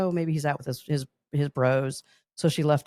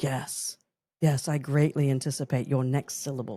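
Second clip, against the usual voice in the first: imitated, put-on British butler voice. Retelling a scene from an old movie, the butler answering her, in a british butler voice. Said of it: "he had a British".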